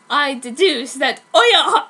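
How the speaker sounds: mock deduction. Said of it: "he said".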